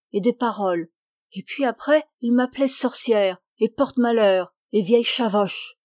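a hint of a wary old countrywoman chattering on; old servant woman. Jacquine raconte sa vie. (la vieille servante, légèrement plus forte)

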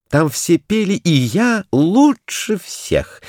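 boastful. A narrator's reading. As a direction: show off, stretch "и я лучше всех". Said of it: "вскричал Курилка".

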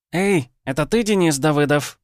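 a boozy village woman hollering high and loud from the fence; woman calling out. A narrator's reading. Drunk neighbour woman calls across the yard, high and loud. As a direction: shout the question across the yard. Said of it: "раздался женский голос от забора".

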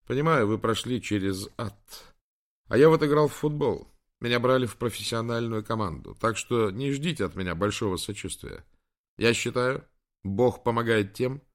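a hint of a no-nonsense coach; lightly voiced young trainer. Trainer refuses admiral much sympathy, lightly voiced and firm.

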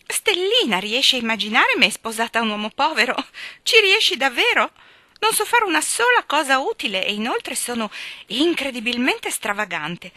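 put-on lively, light young woman's voice; a flighty girl gossiping breezily; lightly voiced chatterbox girl; chatty girl. Phil boasting about suitors.

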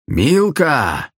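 high call across the hall. Acted. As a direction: shout her name across the room. Vadzim calls across the hall.

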